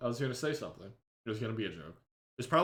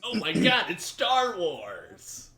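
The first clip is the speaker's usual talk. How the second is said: excited; 5 semitones higher, slower than usual. Retold or imitated. Mocking the reaction.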